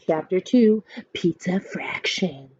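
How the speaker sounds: ordinary delivery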